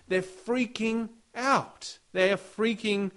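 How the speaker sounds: preacher acting out frightened fishermen; mock panic. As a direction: sell their terror with a lifted voice. Disciples panicking in storm.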